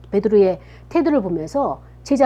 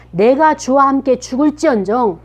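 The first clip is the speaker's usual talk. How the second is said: emphatic acted pledge, raised at the start; bold boasting; 3 semitones higher, 4 dB louder than usual. Peter stepping forward to Jesus again, boasting boldly. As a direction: declare loyalty with big confidence. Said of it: "호언장담을 하는 거예요".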